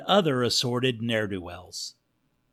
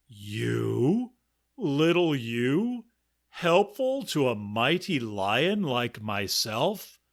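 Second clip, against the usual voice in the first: lion. Acted. Lion mocking the mouse.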